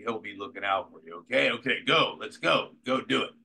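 lightly voiced director at the ramp; director giving orders. Director Dick Donner giving orders.

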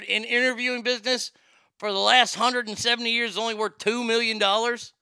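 high, loud disbelief; can't believe the number; incredulous. Real, not acted. Disbelief at Larry King's worth.

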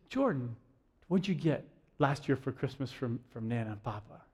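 soft, low, patient questioning; gentle grandmother. Retold or imitated. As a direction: imitate Nana quietly reasoning with a child. Grandmother gently questions disappointed child.

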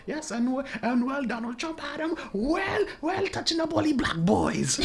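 high, slow mimicking voice of mom; imitating mom on phone. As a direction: put on a high fussy mother's phone voice. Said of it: "you should hear on the phone".

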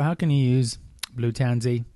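casual put-on Australian accent. Host asks viewers about using the oil, light Australian accent. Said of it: "saying it with an Australian accent".

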